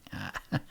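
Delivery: one short, soft laugh; brief acted laugh that stops at once; single laugh. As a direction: let out a single quiet "hah". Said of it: "Sarah gave a single laugh".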